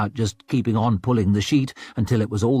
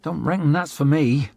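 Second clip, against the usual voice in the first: gruff northern woman; 6 semitones higher than usual. Acted. Rika scoffs at theater.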